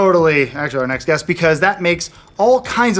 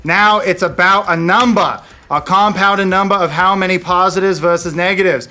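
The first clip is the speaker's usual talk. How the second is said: imitating Brett Ratner; 2 semitones higher, 3 dB louder than usual. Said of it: "as I do the accent longer".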